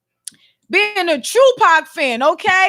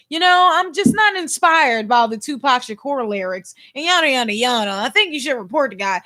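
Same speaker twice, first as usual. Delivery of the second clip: whiny complainer; 5 semitones lower than usual. Retold or imitated. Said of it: "Somebody had to say something like".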